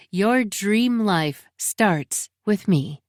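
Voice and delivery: slow, sneering ad-slogan read; mocking slogan. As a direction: drag out the cheesy slogan with contempt. Reading out rival's ad slogan.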